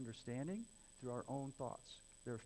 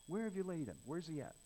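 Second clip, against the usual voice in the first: higher, quicker impatient question; irritated paraphrase; 3 semitones higher than usual. Acted. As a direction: act out an irritated demand. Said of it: "In other words".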